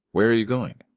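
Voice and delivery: whimpered. Acted. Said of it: "she whimpered".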